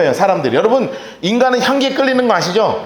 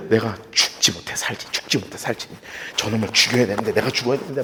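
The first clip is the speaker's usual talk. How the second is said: low, soft grumbling to oneself; imitated wife's sullen mumble; resentful muttering; 11 semitones lower, 8 dB quieter than usual. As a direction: mutter bitterly under the breath. Imitates resentful wife serving food.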